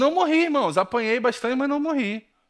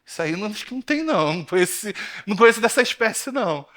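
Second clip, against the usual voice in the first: joking disbelief; 3 semitones higher, faster than usual. Retold or imitated. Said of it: "já começa as brincadeiras dele".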